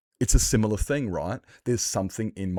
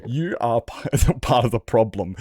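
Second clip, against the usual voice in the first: light mock British accent, pitched up at the start; imitating British accent; 3 semitones higher than usual. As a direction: retell the guy's rant in a British accent. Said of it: "he had a, like, a pure British accent".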